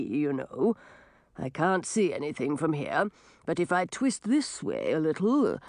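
unbothered sea creature; gurgling tentacle alien. Acted. Octopus character voice.

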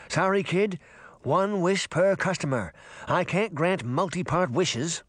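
a hint of offhand fish character; lightly voiced brusque fish. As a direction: brush the kid off as a fish.

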